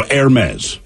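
Hermes said as "air-MEZ"; French-style pronunciation. Shown as a demonstration. Host settling the brand name, Hermes as air-MEZ. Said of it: "I think it's Hermes".

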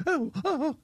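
lightly imitated high warble; a hint of a high crooner; a singer. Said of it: "kind of where he goes ... high like that".

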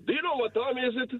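a touch of sleepy annoyance; annoyed host. Retold or imitated. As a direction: imitate a grumpy early-morning host. Caller quotes annoyed morning host.

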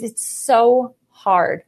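very slow, tearful, drawn-out words; retold crying. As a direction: relive the sob as you say it. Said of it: "the only words I could say is".

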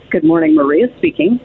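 low, sultry office greeting; a hint of a seductive receptionist. Shown as a demonstration. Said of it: "it basically literally went from".

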